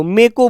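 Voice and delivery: "मे को" said clipped, मेरे shrunk to मे; me ko shortened. Shown as a demonstration. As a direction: squeeze मेरे को down to "मे को". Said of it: "बोलते हैं". ("मे को" बोलो, मेरे नहीं)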